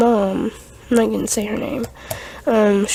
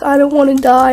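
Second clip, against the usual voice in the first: high, loud frightened cry; scared crying plea; 4 semitones higher, 6 dB louder, faster than usual. Retold or imitated. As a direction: beg through panic. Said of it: "my friend started crying".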